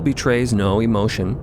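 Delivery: ordinary delivery, nothing marked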